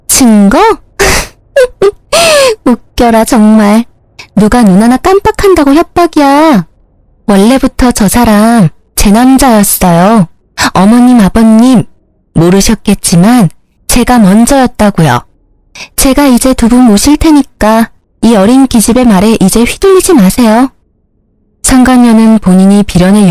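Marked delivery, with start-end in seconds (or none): 0.1-3.8 sneering, much higher laugh; scornful laugh. Acted. Mistress mocks the threat. 4.4-20.7 put-on cocky young mistress lecturing the in-laws; brazen mistress. Mistress talks back to in-laws.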